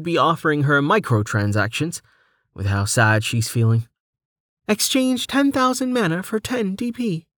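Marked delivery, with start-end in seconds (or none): 4.7-7.3 very high-pitched system voice; menu making an offer. Acted. Menu offers Delta a trade, high announcing voice.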